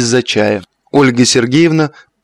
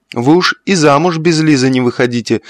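usual speaking voice

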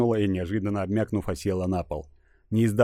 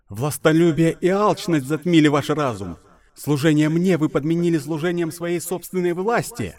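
loud, high divine wrath; booming goddess voice; 7 semitones higher, 5 dB louder than usual. Acted. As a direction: thunder it down as an angry goddess. (голос разгневанной богини)

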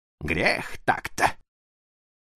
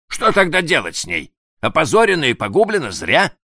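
prince's voice, higher; 9 semitones higher, 5 dB louder than usual. Acted.

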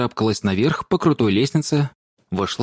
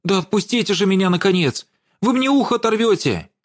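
pained protest; 9 semitones higher than usual. A narrator's reading. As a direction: yell as your ear is pulled. Ear being pulled.

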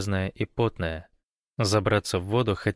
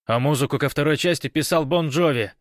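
called out louder and higher; shouted; 6 semitones higher, 5 dB louder than usual. Acted. Gosh shouts back while running to the carrier. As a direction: shout it over your shoulder. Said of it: "крикнул Гош".

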